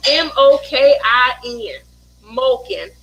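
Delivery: "Moking" without the opening s of smoking; spelled-out mispronunciation. Shown as a demonstration. Mother spells out her son's word, slow deliberate "Moking". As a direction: spell it letter by letter, slowly, then "Moking". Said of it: "He was moking".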